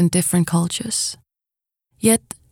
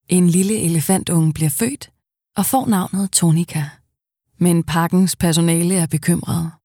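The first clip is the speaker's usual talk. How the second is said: calm storytelling narration with pauses; nature documentary narration. Acted. Voice actor narrating a nature documentary, calm. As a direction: tell the elephant calf's story gently.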